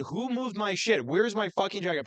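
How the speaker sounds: mock yell of exasperation; half-voiced rant at a whole house; retold yelling. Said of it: "I'm yelling in this house".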